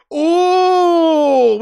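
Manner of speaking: sudden high loud yelp of excitement; excited cry. Real, not acted. Commentator watching the match, a sudden excited cry. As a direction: burst out as the chance flies in. Sudden goal chance on stream.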